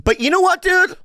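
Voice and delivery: high, drawn-out fake indignation; hammed-up mock outburst; mock outrage. Real, not acted. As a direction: ham up the grudge.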